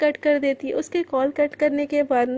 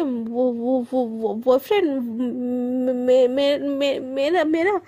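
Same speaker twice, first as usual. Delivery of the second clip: panicked stammer; 2 semitones lower, slower than usual. Acted. Caught out, stammering.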